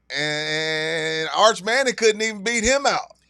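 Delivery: high, loud, slow Southern drawl; country accent. Pretend. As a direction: lay on a thick country accent. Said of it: "let me put my country accent on".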